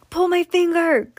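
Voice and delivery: put-on high, loud kid voice; little brother. A narrator's reading. Little brother pestering sleepy brother, high and loud. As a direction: pester your big brother.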